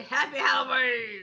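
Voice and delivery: loud festive shout; cheerful shout. Shown as a demonstration. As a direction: shout it out happily. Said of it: "You wanna tell them happy Halloween?".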